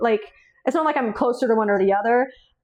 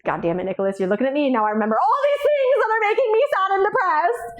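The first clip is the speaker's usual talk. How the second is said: mock-whiny complaint; 9 semitones higher than usual. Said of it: "I was like".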